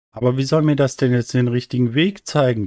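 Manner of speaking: etwas kindliche, höhere Stimme; ratloser kleiner Stern. Acted. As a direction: frag dich hoch und ratlos. (kindlich ratlos)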